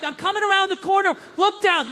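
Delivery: put-on quoting the old man high and loud; mock old man. Old man's quote in a joke.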